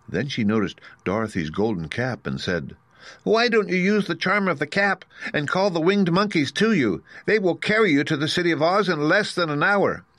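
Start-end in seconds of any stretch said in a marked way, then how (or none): 3.2-10.0 very high squeaky mouse queen; squeaky little voice. A narrator's reading. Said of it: "in her squeaky little voice".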